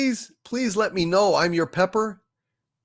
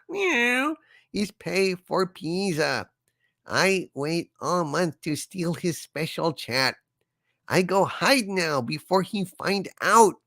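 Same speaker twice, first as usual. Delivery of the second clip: cat voice. Pretend. Reading cat Loki's chat message.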